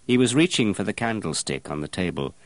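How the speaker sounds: ordinary delivery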